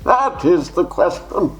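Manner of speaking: slow grand dramatic recital; mock serious Shakespeare; Shakespearean actor. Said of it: "challenge you to do Shakespeare".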